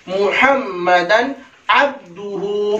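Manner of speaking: careful 'abdu-hu' in अब्दुहु; correct pronunciation. Shown as a demonstration. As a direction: recite मुहम्मदन अब्दुहु syllable by syllable. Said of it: "सही तलफ़ुज़".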